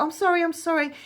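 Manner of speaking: high-pitched, mock-sweet apology; retold sugary sorry; suddenly sweet apology. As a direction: imitate him pleading sweetly, pitch up. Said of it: "then he become, like, really, like, you know, sweet".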